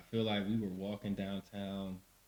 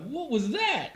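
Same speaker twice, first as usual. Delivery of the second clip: laughing question; 6 dB louder, slower than usual. Retold or imitated. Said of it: "was like".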